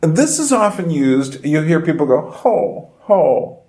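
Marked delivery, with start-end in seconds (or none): 2.3-3.6 sympathetic ho. Retold or imitated. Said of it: "more for commiseration".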